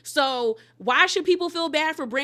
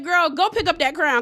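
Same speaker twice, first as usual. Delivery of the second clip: mock scolding; 4 semitones higher, 5 dB louder than usual. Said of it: "I said".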